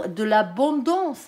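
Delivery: drawn-out word in a regional French accent; own French accent. Real, not acted. Reader repeats abondance before apologising, thick French accent. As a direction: let the French accent stretch "l'abondance". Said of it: "excusez pour l'accent".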